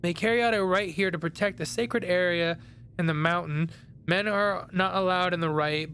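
measured read-aloud narration; reading game text. A narrator's reading. Player reading a researcher's notes aloud, narration. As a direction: read it out like a storybook.

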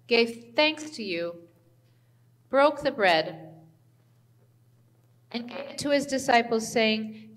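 solemn liturgical prayer voice. Acted. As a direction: lead the Great Thanksgiving reverently. Leads the communion liturgy.

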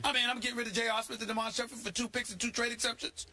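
high-pitched, worked-up sports rant; incredulous, pitch climbing as the tirade builds; exasperated rant. Real, not acted. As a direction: rant in indignant disbelief at a team's bad moves. Worked-up rant about Knicks trades.

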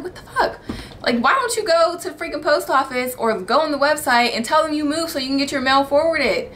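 laughing disbelief at the guests; exasperated rant. Retold or imitated. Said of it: "I'm like".

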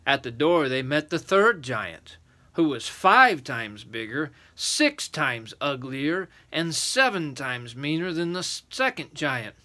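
measured, emphatic storybook reading; story narration. A narrator's reading. Adult reading a giant tale to children, storytelling voice.

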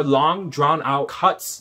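slow, stretched-out emphasis; drawn out. Shown as a demonstration. Reviewer describing lengthy camera cuts, drawn-out words. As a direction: draw out "long, drawn out" slowly.

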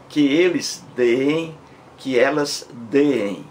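deem said slowly as two Es, de-em, both times; slow teacher's demo of the hiatus; drawn-out hiatus. Shown as a demonstration. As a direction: stretch each deem into two vowels.

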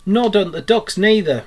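loud, high, cheery comeback; chirpy storybook retort; cheerful. A narrator's reading. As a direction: answer back brightly and merrily. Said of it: "replied the Rat cheerfully".

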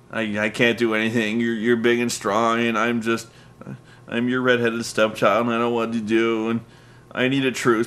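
mock-timid begging; sheepish Cena. Cena begging Nexus for a truce, lightly voiced, sheepish. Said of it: "Cena comes out looking all sheepish".

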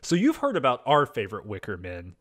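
loud upbeat YouTuber host. Shown as a demonstration. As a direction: hype it up like a video host. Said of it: "let me get my, uh, YouTuber voice on".

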